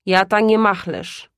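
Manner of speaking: porywczo. Acted. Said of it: "rzekł porywczo ojciec".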